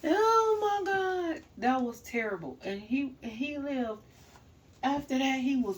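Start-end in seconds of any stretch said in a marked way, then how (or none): 0.0-1.4 high, slow and loud; loud drawn-out oh my God. Real, not acted. Recalling the roach boy, loud drawn-out disbelief. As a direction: let it stretch out in disbelief.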